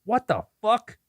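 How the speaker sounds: high-pitched, incredulous outburst; mock shock. Co-host teasing friend about being eighty-four, high mock shock. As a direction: pitch it way up in exaggerated disbelief.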